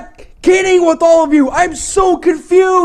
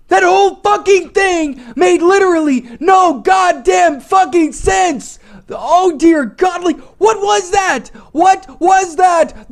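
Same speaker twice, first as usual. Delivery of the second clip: furious rant; 3 semitones higher than usual. Real, not acted. Raging about the story.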